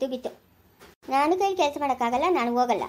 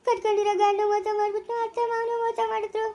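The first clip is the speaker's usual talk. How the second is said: higher, tearful wail of betrayal; crying lament; 5 semitones higher than usual. Acted. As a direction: cry out that everyone betrayed her. Wife laments being cheated by all.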